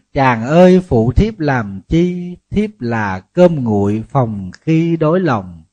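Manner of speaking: put-on slow, lilting recitation of an old couplet; folk verse recital. Monk recites a folk couplet to the women, slow. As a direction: recite the verse slowly, savouring each line.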